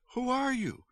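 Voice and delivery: very high, exasperated question; shouting. A narrator's reading. Mother demanding the stranger's identity, high shouted question. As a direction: pitch leaps up, volume held in. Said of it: "my mother shouted".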